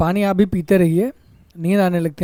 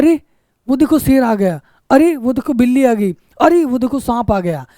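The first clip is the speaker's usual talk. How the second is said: "अरे" thrown out in sudden alarm, then pointing; surprised; 3 semitones higher than usual. Shown as a demonstration. Teacher shows the right way, an alarmed surprised "अरे". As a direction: exclaim as if a lion appeared. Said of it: "हम कहते हैं".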